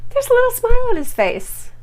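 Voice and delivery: high, loud delighted exclaim; gleeful emphasis. Real, not acted. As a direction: squeal it out in delight. Gleeful pointing out the smile.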